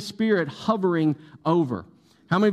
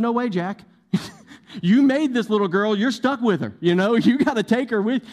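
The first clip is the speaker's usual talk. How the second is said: joking, facetious put-on voice, pitched higher; 4 semitones higher than usual. Retelling, as a joke, what a nurse said: facetiously imitating a nurse. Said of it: "I'm being facetious there".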